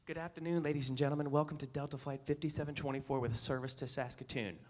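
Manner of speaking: smooth professional cabin announcement; flight attendant announcement. Retold or imitated. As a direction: read it like a polished airline welcome. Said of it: "Her announcement went like this".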